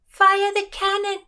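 high, loud order; shouted command. A narrator's reading. Lady on ship orders the cannon fired, shouted command. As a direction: command it at full voice from the deck. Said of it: "Elizabeth commanded".

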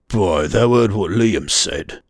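slow, rough Geordie question; a Geordie rider asking the boy; Geordie dialect. Acted. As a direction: ask it in broad Geordie. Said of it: "rugged Geordie dialect".

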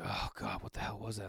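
a startled, unvoiced whisper in the dark; hushed whisper. Wife and I woken at one thirty, hushed whisper. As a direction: whisper it like you've just been woken.

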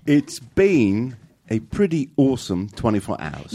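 slow mock Kiwi accent; New Zealand accent. Cohost repeating the clip in a New Zealand accent. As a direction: carefully copy the New Zealand vowels. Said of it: "You did it!".

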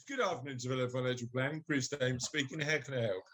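low, practised business greeting; posh phone voice. Pretend. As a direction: answer poshly as a busy firm owner. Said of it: "This is the way to do it".

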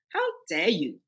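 indignant, with steal drawn out slow and loud; retold anger. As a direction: demand it like defending a birthright, slow and hard on steal. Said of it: "that kind of anger".

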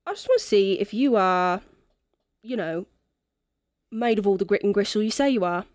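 put-on lightly accented drunken quest-giver; tipsy non-player character. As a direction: lay out the job as a mildly tipsy rogue. Game master voices Echo.

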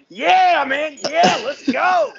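loud, high hyped-up cheer; pumped-up friend. Retold or imitated. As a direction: cheer it like a drunk buddy at a show. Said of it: "he's like".

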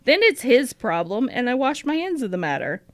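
diary reading. Acted. Host reads Matilda's diary entry aloud to her co-host, lightly voiced and earnest. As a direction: read the entry as the earnest young sister.

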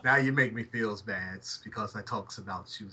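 lightly put-on Italian accent with broken grammar; a hint of an Italian accent, apologetic. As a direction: play a sheepish Italian guy, barely voiced. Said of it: "So now it's, uh, Italian Darrell".

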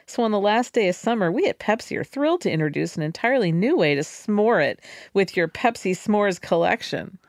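oily corporate sales pitch; smarmy voice. Retold or imitated. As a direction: purr it like a slick ad. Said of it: "smarmy voice you do for Pepsi".

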